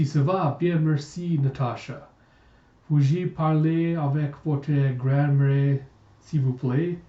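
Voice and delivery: halting, amateur French; polite request in clumsy French; atrocious French. Acted. Jacob asking Natasha for her grandmother, in bad French. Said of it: "I apologize for my atrocious French".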